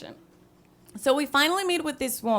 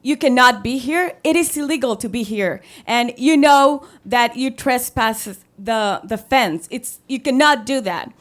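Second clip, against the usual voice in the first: stern scolding guard; 7 dB louder than usual. Retold or imitated.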